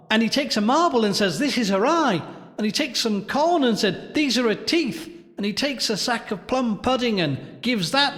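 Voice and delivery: put-on high, rattled-off child's chatter; happy child. A narrator's reading. Child explaining the game to everyone, happy chatter. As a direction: rush through it like an eager kid. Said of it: "some child cried, happily in the dark".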